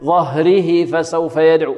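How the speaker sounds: slow chant, ظهره ending in short "hi" before فسوف; wrong, yā dropped. Shown as a demonstration. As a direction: leave no long ī on ظهره. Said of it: "خطأ". (تلاوة خاطئة دون صلة في ظهره)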